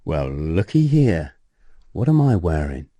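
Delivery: slow, drawn-out teasing quote; mock knowing taunt. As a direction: draw it out, lightly imitating a man showing off. Acted taunt from the expat.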